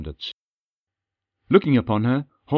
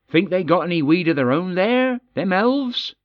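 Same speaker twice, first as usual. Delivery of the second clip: higher, sly dwarf question; 8 semitones higher than usual. A narrator's reading. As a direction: tease about elf weed. Holdergoz asks.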